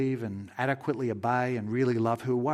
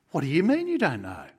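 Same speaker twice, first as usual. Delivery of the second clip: louder, mildly incredulous comeback; lightly acted disbelief, pushed louder; baffled angel; 3 semitones higher, 5 dB louder than usual. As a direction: challenge a puzzling answer with some disbelief. Angel baffled by the guy's answer.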